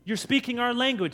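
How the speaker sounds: high-pitched, puzzled exclamation; astonished onlookers. Acted. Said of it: "it's their language but little accent".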